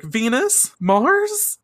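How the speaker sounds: high anguished calling out; desperate calling. Retold or imitated. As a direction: reach out for lost friends. Sailor Moon reaching for friends.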